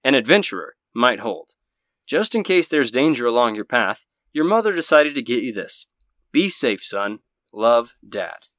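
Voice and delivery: firm, projected anchorman voice; news-anchor reading of a fatherly sign-off; Anderson Cooper. Acted. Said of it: "let me do my best Anderson Cooper impersonation".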